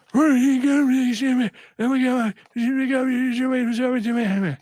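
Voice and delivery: high, excited cartoon pigeon voice; God Pigeon impression. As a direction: squeal it like a giddy cartoon bird. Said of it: "Cameron got the reference".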